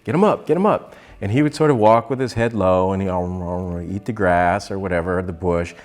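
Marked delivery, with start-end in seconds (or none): 0.0-0.9 shouted instructions. Retold or imitated. Sister yelling riding orders, urgent and high. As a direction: bark the horse tips at her.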